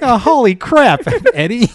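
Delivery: high, loud cartoon shriek; Family Guy voice. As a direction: squeal it like a cartoon. Mock Family Guy Venom scene.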